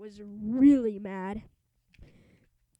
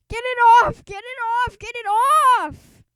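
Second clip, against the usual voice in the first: high, loud, frantic repeated screams; a thug hopping about covered in foam; shrieking in horror; panicked screaming; 12 semitones higher, 11 dB louder than usual. Acted. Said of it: "screamed Frankenstein".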